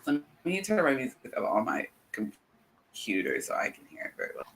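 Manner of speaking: choppy breaking-up audio; cutting out like a bad connection. Real, not acted. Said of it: "You sound like you're breaking up".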